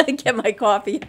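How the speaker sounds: laughing through the words; chuckling while talking. Real, not acted. Laughing at coffee joke.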